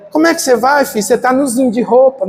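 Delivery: put-on light Nordestino accent, mother's voice; the way a Northeastern mom says "nozinho"; Northeastern Brazilian accent. Mother worried about her son's clothes, lightly in a Nordestino accent. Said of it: "Nordestino fala assim".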